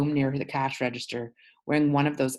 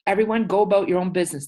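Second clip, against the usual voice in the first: fast, high, loud order; rapid loud police command; cop ordering crowd; 6 semitones higher, 6 dB louder, faster than usual. Acted. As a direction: shout the crowd away. Cop orders onlookers away.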